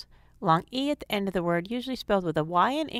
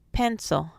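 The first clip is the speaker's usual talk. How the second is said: "pencil" with stress on PEN; first syllable accented. Shown as a demonstration. Teacher showing two-syllable Latin accent, "pencil" stressed on PEN. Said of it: "accented on the first syllable".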